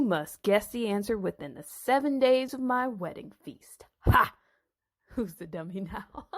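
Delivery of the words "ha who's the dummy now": laughing. Acted. Gloating over the riddle.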